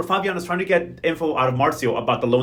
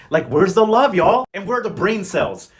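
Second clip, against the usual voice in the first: loud exasperated question; 2 semitones higher, 3 dB louder, slower than usual. Real, not acted. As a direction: throw up your hands, louder. Exasperated outburst at couple.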